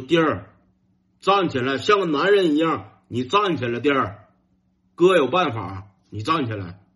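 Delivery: firm, weighty big-brother command; mock-solemn rallying order, leaning on each phrase; solemn, stern. Big brother tells little brother to stand up, solemn and stern. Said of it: "我哥当时氛围感整的挺庄重".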